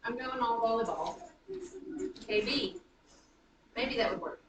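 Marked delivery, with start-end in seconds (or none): 2.3-2.8 "K B" leaning on the B; unstressed K, stressed B in "K B"; iambic stress. Shown as a demonstration. Teacher retries the name as an iamb, stressing B in "K B". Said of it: "gonna do an iambic pattern".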